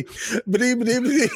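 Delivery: Porky Pig stutter. Retold or imitated. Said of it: "he lost it when you talked about".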